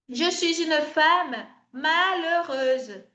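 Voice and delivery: je suis une femme malheureuse spelled out very slowly; slow French model. Shown as a demonstration. Teacher slowly modelling a French sentence. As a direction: model each word of the phrase slowly.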